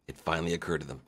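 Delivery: dropped low and soft, like a dawning realisation. Shown as a demonstration. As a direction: let it sink in quietly.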